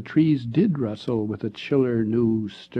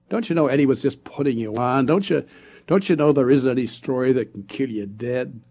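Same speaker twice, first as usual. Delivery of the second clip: mocking; 2 semitones higher, 5 dB louder than usual. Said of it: "Ted said scornfully".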